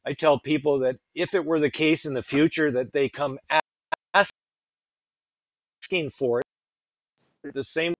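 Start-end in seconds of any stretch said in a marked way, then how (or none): 1.1-7.9 choppy breaking-up phone audio; bad connection, words cutting out; glitchy robotic call. Real, not acted. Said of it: "Oh, you're breaking up just a bit".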